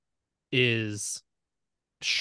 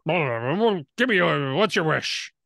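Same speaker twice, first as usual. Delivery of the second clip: sputtering; 2 semitones higher, slower than usual. Acted. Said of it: "he's sputtering".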